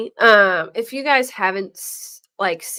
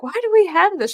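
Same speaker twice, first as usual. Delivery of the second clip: mock puzzled; 11 semitones higher, 5 dB louder, faster than usual. Voicing girlfriend.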